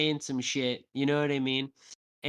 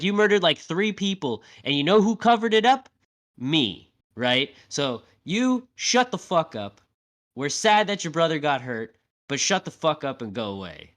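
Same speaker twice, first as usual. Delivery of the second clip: retold rant; 4 dB louder than usual. Ashley rants at A-Train.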